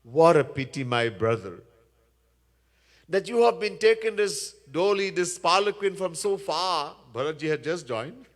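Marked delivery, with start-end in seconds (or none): 0.0-1.6 mock pity with the first words pressed; sarcastic. King taunting weary palanquin bearer, sarcastic. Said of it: "He says sarcastically". 3.1-7.0 mock sympathy, pitched up; sarcastic. King to Bharat about the palanquin, sarcastic. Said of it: "He says sarcastically".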